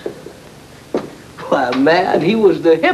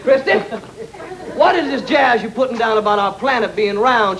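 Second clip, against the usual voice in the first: queen voice; 3 semitones higher than usual. Acted. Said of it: "Belle took a long look at him and said".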